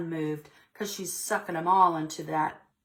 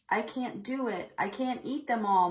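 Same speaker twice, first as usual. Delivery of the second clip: understated full-tummy moan; mild moan; 6 semitones higher than usual. Acted. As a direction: lightly moan that you can't eat another berry. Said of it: "moaned Frida".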